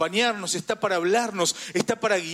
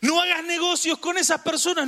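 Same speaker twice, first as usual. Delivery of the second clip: high-pitched admonishing call; warning voice; 10 semitones higher than usual. Acted. Warning someone off bad business partners, high admonishing call. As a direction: sound the alarm, pitched well up. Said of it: "Y él me estaba diciendo".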